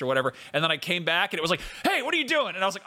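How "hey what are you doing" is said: high-pitched indignant call-out; sudden high, accusing question; mock challenge. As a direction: imitate a creature catching a thief. Acts owl bear catching them.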